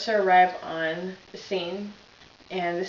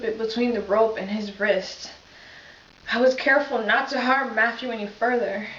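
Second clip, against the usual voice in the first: lightly voiced police officer, understated grief; a hint of a shaken officer reliving the scene; Reggie Flutie monologue. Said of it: "I will be playing Reggie Flutie".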